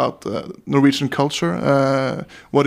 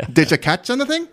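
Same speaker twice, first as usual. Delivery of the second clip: raised, lively joke voice; Ole character voice; 9 semitones higher, faster than usual. Acted. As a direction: pitch up for Ole the Norwegian. Joke dialogue, Ole's voice.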